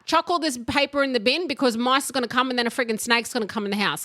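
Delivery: a fast hint of a scolding mother; scolding mum. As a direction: rattle off the mum's rant. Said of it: "she'd go".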